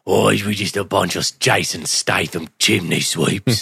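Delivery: a light mock Cockney chimney sweep voice, slow; half-hearted Cockney lilt, drawn out; chimney sweep accent. Co-host mocking the character's chimney sweep accent, lightly voiced Cockney. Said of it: "He turns into such a chimney sweep".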